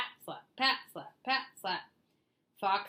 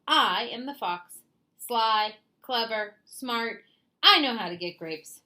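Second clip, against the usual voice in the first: loud, condescending fox; smug fox; 4 semitones higher, 5 dB louder than usual. Acted. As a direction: talk down to him like a smug know-it-all. Fox lecturing Bear loudly.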